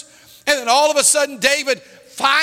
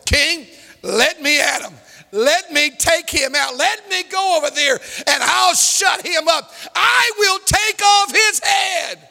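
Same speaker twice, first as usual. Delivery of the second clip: fierce urging; 4 semitones higher than usual. Acted. Mighty man begs his king to let him attack, building fiercely. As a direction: plead to be unleashed, rising in force and pitch.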